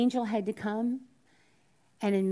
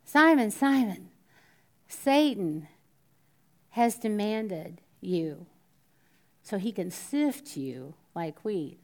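grave, drawn-out warning to Simon; solemn warning; slower than usual. Retold or imitated. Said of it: "what an amazing statement".

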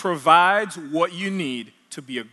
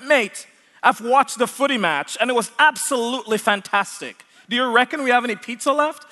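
higher, playful mock Australian accent; imitated Australian accent; 6 semitones higher than usual. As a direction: put on a matey Aussie accent. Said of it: "trying to talk like an Australian".

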